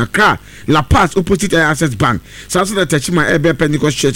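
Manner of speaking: brisk, upbeat radio ad read. Acted. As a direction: sell the pepper and tonic to listeners. Reads a live ad.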